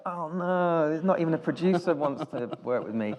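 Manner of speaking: high, loud, laughing self-pity; laughing mock despair. Director retelling finding out the producer was fake, laughing. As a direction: play up the dismay through laughter.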